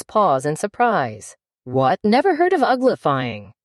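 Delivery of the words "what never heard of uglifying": exclaimed. Acted. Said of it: "it exclaimed".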